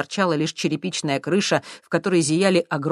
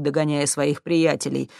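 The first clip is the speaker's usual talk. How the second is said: plain reading voice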